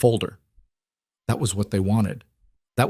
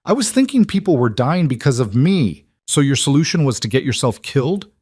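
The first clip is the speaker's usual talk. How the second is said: heated argument; 5 semitones higher than usual. Acted. Heated argument between Julian and Adrian.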